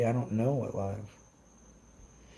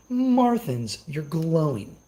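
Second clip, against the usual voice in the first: mock taunt; 6 semitones higher, 4 dB louder, much slower than usual. Taunting a rival creator.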